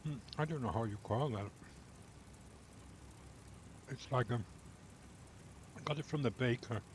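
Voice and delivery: talking with a mouthful of crunchy bar; crunching while talking. Real, not acted. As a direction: chew and crunch between the words. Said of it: "You can probably hear me crunching".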